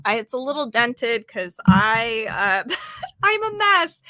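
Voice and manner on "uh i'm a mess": giggling through the words; laughing. Real, not acted. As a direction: laugh it out, a bit embarrassed. Laughing at her dented mic.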